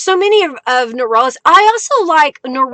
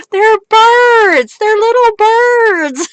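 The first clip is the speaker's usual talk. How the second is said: laughing correction; 8 semitones higher, slower than usual. Real, not acted.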